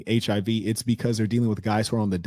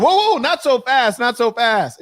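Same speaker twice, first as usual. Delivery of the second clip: much higher, slow, louder "whoa, whoa"; mock panicked plea; 13 semitones higher, 6 dB louder, slower than usual. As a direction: squeak out a hammed-up "slow down". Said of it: "I was".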